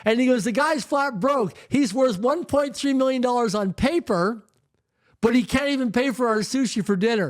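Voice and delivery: high, carrying public announcement to the whole room. Retold or imitated. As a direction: announce it to the packed restaurant, slowing on flat broke. Mentor announces to packed restaurant.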